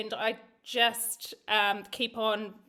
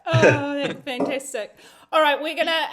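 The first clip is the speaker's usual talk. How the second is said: slowed, louder words through a real laugh; 7 dB louder than usual. Real, not acted. Host laughing as she thanks guests for their stories. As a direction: laugh your way into the next bit.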